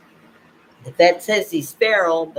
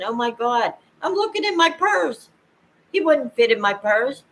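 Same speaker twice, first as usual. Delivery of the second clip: retold panic; 6 semitones higher than usual. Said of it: "And I'm panicking".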